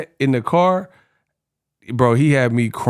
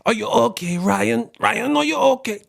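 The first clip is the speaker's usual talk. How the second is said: high mock Ryan-are-you-okay; 8 semitones higher than usual. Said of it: "He said".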